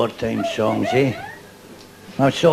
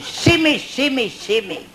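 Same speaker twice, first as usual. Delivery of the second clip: mock cry for help; 12 semitones higher, slower than usual. Buried woman calling for help.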